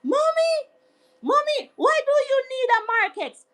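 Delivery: high whiny mock-crying plea; hammed-up crying child voice; imitating a crying daughter. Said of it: "she was crying".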